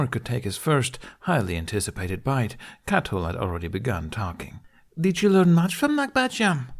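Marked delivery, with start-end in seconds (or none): 5.0-6.7 high, louder friendly question; warmly. A narrator's reading. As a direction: greet him warmly, a bit higher. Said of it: "she warmed with".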